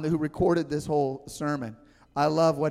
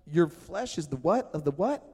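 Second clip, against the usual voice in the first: confused questioning. Retold or imitated. Disciple baffled by Jesus's words, puzzled rising question. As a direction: ask it like you can't believe your ears. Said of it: "and you're going".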